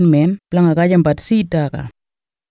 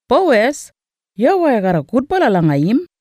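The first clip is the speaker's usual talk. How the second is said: bursts out high on the name; excited; 5 semitones higher than usual. Acted. Naomi to Ruth, thrilled on hearing the name Boaz, high and eager. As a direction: lit up with sudden hope, pitched up.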